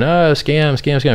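hammed-up panicked yell; mock screaming scam. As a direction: parody critics shrieking scam. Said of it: "they just start screaming".

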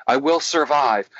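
plain-volume, firmer repeat. Retold or imitated. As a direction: imitate a client gaining some confidence. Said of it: "Say it louder".

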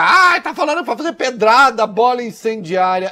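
high, loud mocking complainer; whiny critic. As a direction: mimic a fussy objector. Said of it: "antes que alguém diga".

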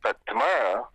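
tinny phone audio; phone speaker. Real, not acted. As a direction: voice over a speakerphone. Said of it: "Put him on speaker".

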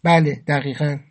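"بله" and "دقیقاً" each set apart and firmly stressed; emphatic confirmation. A narrator's reading. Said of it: "با تأکید گفتم". (تأکید محکم روی «بله» و «دقیقاً»)

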